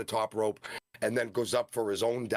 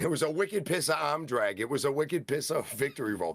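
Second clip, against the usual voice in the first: put-on Boston accent; 5 semitones higher than usual. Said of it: "in a Boston accent".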